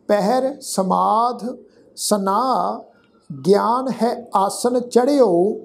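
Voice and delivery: measured, deliberate chanting of the verse; slow scripture recitation. Acted. Teacher recites the savaiya to the sangat, slow and measured. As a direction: recite each word slowly and clearly.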